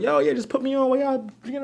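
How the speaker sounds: a student asking for the show while drinking; imitating partygoers. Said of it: "It's like".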